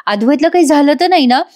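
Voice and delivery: a touch of scared pleading; retold panic. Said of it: "कला घाबरते".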